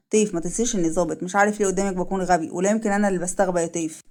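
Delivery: low, restrained man's voice; a hint of a sober male officer; lightly voiced suspicious officer. Officer confronting the woman he suspects, low and restrained.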